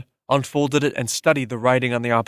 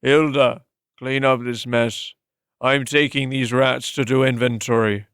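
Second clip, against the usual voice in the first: slow, curt orders to a servant; commanding master. Acted. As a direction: bark the order, then move on.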